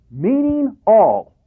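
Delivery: ordinary talk, nothing marked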